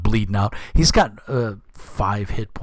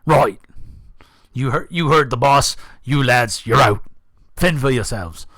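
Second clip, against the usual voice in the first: barked dismissal; 2 semitones higher, 3 dB louder than usual. Acted. Bandit leader dismisses his men.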